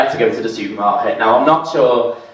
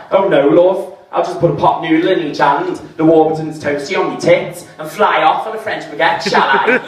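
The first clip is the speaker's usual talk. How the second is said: sarcastic retort; 5 semitones higher than usual. Retold or imitated.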